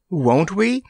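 high, doubting question; dubious. A narrator's reading. Randy doubting Kabumpo's plan to be gone, dubiously.

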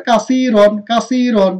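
thick, full r in কাসিরন; heavy R. Shown as a demonstration. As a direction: draw out the middle of কাসিরন, then a heavy r. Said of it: "মোটা". (কাসিরন-এর র মোটা করে)

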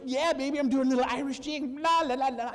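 la, la, la sung playfully; giddy mock jig. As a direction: bounce like dancing a jig with joy. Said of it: "It's like".

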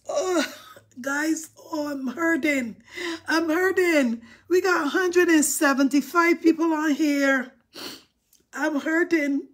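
laughing through a put-on cry; mock crying. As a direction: ham up a pretend cry over the likes. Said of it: "since I cried".

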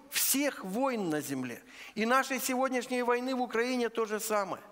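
normal talking voice

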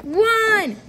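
excited ringside wrestling commentary; play-by-play commentary. Acted. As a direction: call the match live, hyped up.

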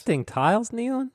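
high, rising challenge to a co-host; mock incredulity. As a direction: query it as if scandalized, pitch climbing. Mock challenge to co-host's rules explanation.

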